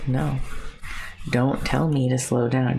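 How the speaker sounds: stubborn pushback, a touch firmer; defiant retort. Retold or imitated. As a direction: dig in your heels, mock defiant. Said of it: "I can get very defiant and be like".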